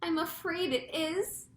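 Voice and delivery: high, slow, hushed-level reply; fearful answer. A narrator's reading. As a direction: confirm the worst with dread. Chief answers in dread.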